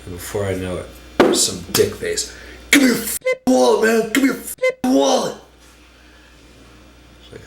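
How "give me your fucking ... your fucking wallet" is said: loud, high yelling mugger; robber. Retold or imitated. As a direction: bark it like a panicked mugger. Robber demands wallet at gunpoint.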